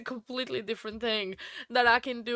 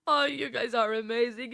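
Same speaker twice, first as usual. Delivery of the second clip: crying. Real, not acted. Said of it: "I'm already crying".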